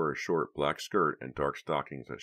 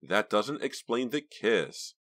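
cold; 7 semitones higher, 4 dB louder, slower than usual. Acted. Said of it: "her blue eyes cold".

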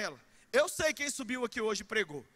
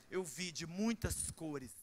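dreamy slow reply; 7 semitones lower, 8 dB quieter, much slower than usual. Retold or imitated. Girl answers dreamily.

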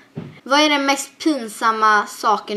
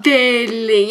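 dad calling; 6 dB louder than usual. Retold or imitated. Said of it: "Och han bara".

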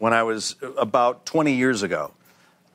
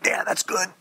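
higher, as if just inhaled laughing gas; mock gas high; 7 semitones higher than usual. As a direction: play lightly dazed after a hit of gas. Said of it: "And I took the thing".

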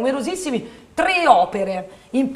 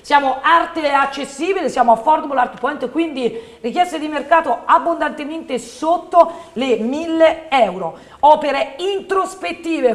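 infomercial; 3 semitones higher than usual. Acted.

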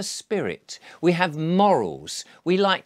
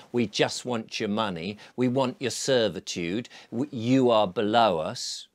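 cold corporation voice; 5 semitones lower than usual. Retold or imitated. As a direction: speak as the cold faceless corporation. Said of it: "like all corporations are destined to do".

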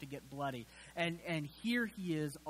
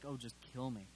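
weary despair; 4 semitones lower, 7 dB quieter, faster than usual. Retold or imitated. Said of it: "kind of still like".

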